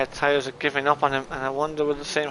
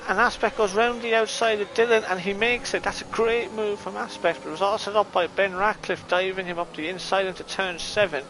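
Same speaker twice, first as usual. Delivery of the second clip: excited commentary; 5 semitones higher than usual. Real, not acted. Overtake called live in a race.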